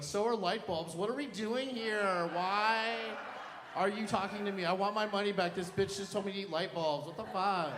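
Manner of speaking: high-pitched mock outrage; indignant outburst. Client ranting at nutritionist, high mock indignation. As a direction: protest in a high, incredulous voice.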